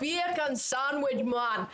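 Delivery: put-on slow, playful Jamaican accent; mock Jamaican accent. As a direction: ham it up Jamaican style. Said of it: "we've got the Jamaican accent".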